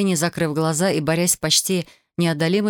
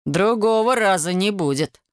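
ordinary delivery, nothing marked

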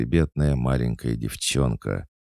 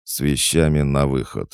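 firm, louder dismissal; stern; 3 semitones higher, 5 dB louder than usual. Acted. Nobleman throwing out a drunk employee, stern. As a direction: order him out, no argument. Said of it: "строго произнёс я".

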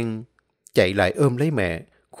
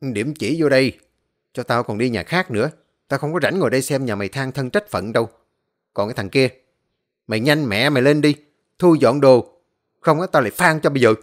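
rising to a loud, fast threat; cold henchman losing patience; threatening snarl; 3 dB louder than usual. Acted. Henchman threatening the boy to hurry up, menacing. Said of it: "nghe thằng Sẹo quát".

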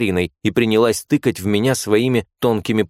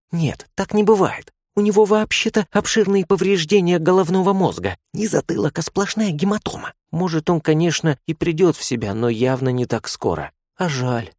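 put-on dreamy young nurse; 8 semitones higher than usual. A narrator's reading. Nurse musing over the unconscious patient, dreamy. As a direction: sigh it like she regrets a lost chance. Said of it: "сказала третья мечтательно".

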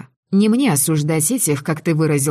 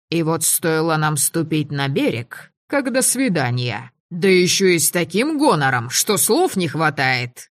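plain reading voice

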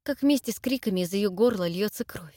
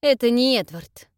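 hard, contemptuous, louder; harsh, disgusted; 4 semitones higher, 7 dB louder than usual. Acted. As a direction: spit it out with distaste. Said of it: "жёстко, с нотками брезгливости".

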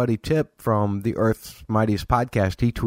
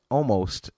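almost given clear weight; stress on almost; 3 semitones higher than usual. Real, not acted. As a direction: lean on the word almost. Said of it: "I emphasize the word almost".

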